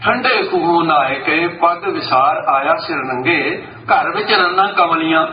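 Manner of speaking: slow, measured recitation of a scripture verse; reciting verse. Shown as a demonstration. Preacher quoting Bhai Gurdas to the congregation, slow recitation. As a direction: intone the couplet slowly. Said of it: "ਭਾਈ ਸਾਹਿਬ ਕਹਿੰਦੇ".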